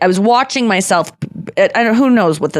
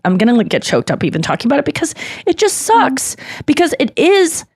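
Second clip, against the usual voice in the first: getting emotional; 4 semitones higher than usual. Real, not acted. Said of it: "I'm sorry, I'm getting emotional".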